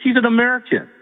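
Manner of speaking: pleading, voice rising, hurt and outraged; upset pleading. Real, not acted. Caller upset about candidate.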